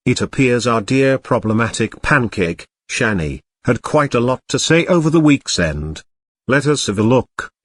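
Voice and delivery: robot cat voice, even and mechanical; a toy robot cat reading comments. Acted. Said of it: "I am a robot cat".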